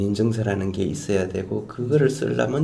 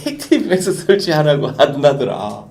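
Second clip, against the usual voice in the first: amused laughter; 3 semitones higher than usual. Real, not acted. Laughs while retelling foreigners' tweet.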